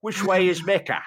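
high mock Palestinian accent, laughing. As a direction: put on a Palestinian Arabic accent. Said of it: "hear him do a Palestinian accent".

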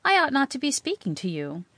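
high, weak protest; a little feeble. A narrator's reading. Girl telling a stranger she shouldn't talk, feebly. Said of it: "she added a little feebly".

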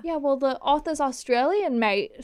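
put-on a touch of Australian accent; lightly Aussie, playful; hint of an Australian twang. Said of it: "it got a little Aussie".

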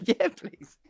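high, meek yes please; timid yes please. Retold or imitated. Runner offered the ball, meek high yes please. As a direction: ask shyly for the ball. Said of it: "I can't say".

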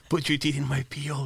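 said through giggles; giggling. Retold or imitated. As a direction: laugh your way through the line. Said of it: "and he's giggling".

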